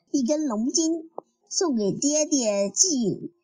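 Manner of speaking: a touch of cheeky glee; mildly gleeful. A narrator's reading. Nezha offers the dragon tendon to his father, mildly gleeful. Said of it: "哪吒笑嘻嘻地说".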